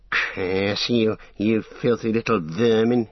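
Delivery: venomous hissing orc; hissed curse. A narrator's reading. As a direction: spit the curse at the captives. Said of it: "he hissed".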